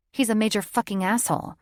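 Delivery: quick, sharp snap; snapped. Acted. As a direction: bite the line off fast. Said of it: "she snapped".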